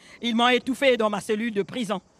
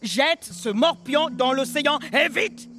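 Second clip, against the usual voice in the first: négrier rugissant; 5 semitones higher than usual. Acted. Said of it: "rugit plus fort que les vagues".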